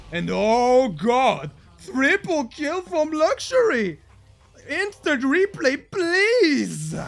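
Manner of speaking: high, loud hype yell for the triple kill; excited caster shout. Real, not acted. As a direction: scream it like the crowd just erupted.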